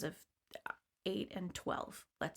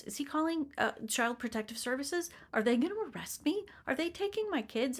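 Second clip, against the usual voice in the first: retold panic; 5 semitones higher than usual. Retold panic about losing her kids.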